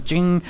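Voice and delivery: quick "ching" of a button push; imitated vending-machine ching. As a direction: mimic the machine's ring.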